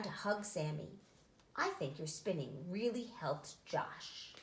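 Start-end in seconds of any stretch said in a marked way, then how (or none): 1.5-4.3 tender. Acted. Mother hugs Sammy.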